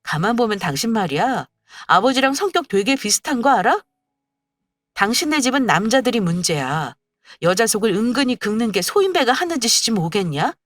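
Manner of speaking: wife lecturing her husband hotly; a touch of an angry wife. Acted. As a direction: scold him without letup. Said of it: "단단히 화가 난 상태".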